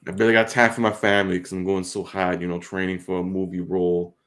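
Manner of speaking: lightly voiced Boston Wahlberg bravado; a hint of a Boston tough guy bragging; Mark Wahlberg impression. Mocking Mark Wahlberg's workout talk, light Boston accent. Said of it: "Mark Wahlberg".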